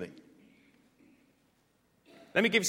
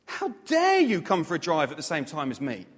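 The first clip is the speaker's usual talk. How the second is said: rising from grumble to a high, loud indignant shout; mock furious driver yelling at the traffic; road rage outburst; 5 semitones higher, 4 dB louder than usual. Driver stuck in a jam yelling at other motorists, building to a mock furious shout. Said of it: "and yet I still get angry".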